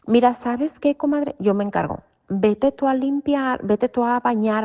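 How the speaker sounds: brisk, bright offer to take over the cleaning; eager reassurance. Retold or imitated.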